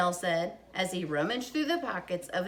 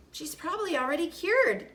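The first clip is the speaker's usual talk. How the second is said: happy thought; 8 semitones higher than usual. Acted. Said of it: "thought her mother happily".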